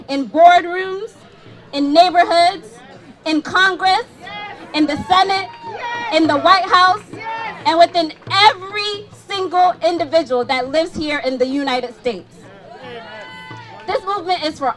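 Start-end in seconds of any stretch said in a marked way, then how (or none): 0.1-10.4 building rally list. Real, not acted. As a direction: build the list to a ringing peak.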